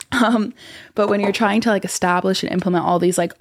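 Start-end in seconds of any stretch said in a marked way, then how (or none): 0.1-1.7 half-whispered carry-over; lingering whisper. Shown as a demonstration. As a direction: keep the whisper as you start. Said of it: "A S M R".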